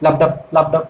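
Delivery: low, even লাবডাব pulses; two-beat লাবডাব, a gap after each; heartbeat rhythm. Shown as a demonstration. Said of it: "স্পন্দনের মতো শব্দ".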